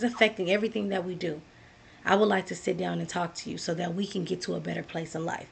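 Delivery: soft, low-key appeal to a partner; calm, blame-free. Acted. Talking to babe about six months of struggling, calm and blame-free. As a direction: open a hard talk gently, without accusing. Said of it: "We're using I statements here".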